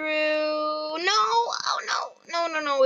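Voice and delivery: breathy panicked whisper; scared whisper of no, no, no; freak out voice. Real, not acted. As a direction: whisper it in a frightened rush. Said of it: "That's my freak out voice talking".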